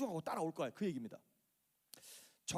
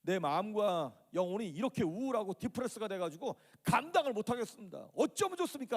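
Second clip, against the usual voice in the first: acted desperate plea, climbing higher; building from a complaint into a raised outcry; crying out to God; 3 semitones higher than usual. Shown as a demonstration. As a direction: plead with mounting urgency. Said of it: "그렇게 외치라고 하는 것이죠".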